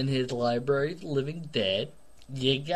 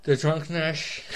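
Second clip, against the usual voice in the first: sexy slurring voice; slower than usual. Acted. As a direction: slur it out seductively like you're tipsy. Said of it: "my sexy slash slurring voice".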